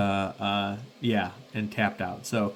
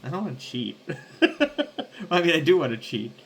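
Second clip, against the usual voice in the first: laughing; 5 semitones higher, faster than usual. Real, not acted.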